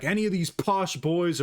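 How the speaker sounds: hammed-up imitation of a fighter's callout; Conor McGregor impression. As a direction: drag it out like a cocky fighter calling out the room. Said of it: "And he's like".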